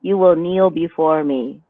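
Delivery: a half-hearted domme through bad posture; a lightly played, sagging dominant; slumped dominant voice. Shown as a demonstration. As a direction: try to command while sagging. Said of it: "dominant voice".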